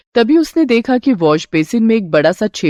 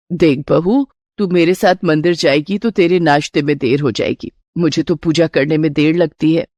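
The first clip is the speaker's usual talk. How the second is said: lightly voiced older woman, slightly lower; a hint of an evasive mother-in-law; discouraging mother-in-law; 4 semitones lower than usual. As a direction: reason with her to stay behind. Mother-in-law makes excuses.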